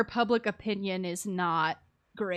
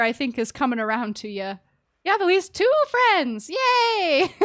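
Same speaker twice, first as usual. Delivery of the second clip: comforting pep talk; 3 dB louder than usual. Retold or imitated. Streamer consoling the character, ending in a laughing cheer. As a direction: cheer up a sad friend. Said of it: "I'm like".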